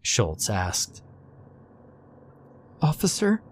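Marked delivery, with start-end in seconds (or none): 2.8-3.4 held back emotion. A narrator's reading. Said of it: "asserted with held back emotions".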